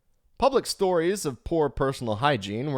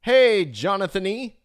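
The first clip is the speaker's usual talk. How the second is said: shouted South African greeting; 8 semitones higher, 7 dB louder than usual. Retold or imitated. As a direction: call the broker in a broad South African accent. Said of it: "in some sort of completely incomprehensible accent".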